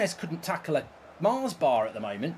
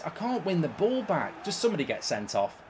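usual speaking voice

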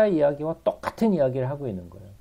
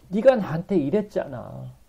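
tearful; 4 semitones higher than usual. Acted. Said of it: "하나님이 울면서".

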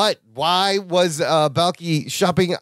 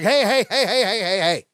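lightly voiced party-pooper boss, higher at first; 4 semitones higher than usual. Boss interrupting the office gathering, mock scolding party pooper. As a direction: break up the fun with repeated heys. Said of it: "Mister Party Pooper Gorpley walks out".

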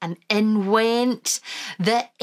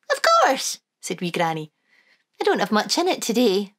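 Wee Granny voice. Acted. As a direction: sing it out like a fond granny.

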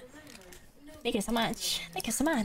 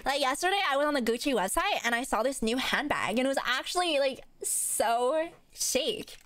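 mock Valley girl; 2 semitones higher than usual. Streamer shows how women supposedly talk, mock Valley girl. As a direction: gush like a parody Valley girl, stretching the last words. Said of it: "a Valley girl".

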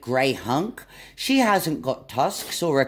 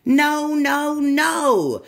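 high, loud, fed-up no no no; exasperated monkey cry; 9 semitones higher, 4 dB louder, much slower than usual. Acted. Little monkey crying out at butterfly's mistake, high and loud. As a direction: wail it in frustration. Monkey protests wrong animal.

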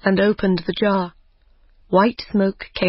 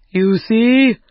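called from inside; 2 semitones higher, 5 dB louder than usual. Acted. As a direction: call out proudly from inside the jar. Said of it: "he called from inside".

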